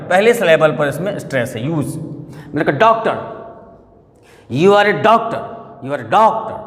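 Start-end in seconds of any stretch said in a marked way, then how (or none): 4.5-6.6 doctor with force on DOC, TOR light; stress on DOC. Shown as a demonstration. Teacher asking where force goes, DOC stressed. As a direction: push the first syllable of doctor. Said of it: "किस पर force जा रहा".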